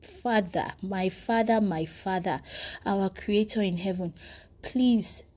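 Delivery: hushed, earnest plea to the Father; clinging prayer. Acted. Believer with shaking faith begging God for help, softly pleading. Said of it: "cling to him and say".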